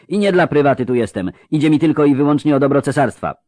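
mildly bristling grating character; a lightly voiced indignant retort. A narrator's reading. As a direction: declaim with a touch of indignation. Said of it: "zaperzył się zgrzytliwy".

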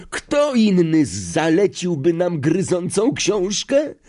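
high, drawn-out exclaimed question; Ron. A narrator's reading. Boy asks who else would assign it, high acted cry. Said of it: "krzyknął Ron".

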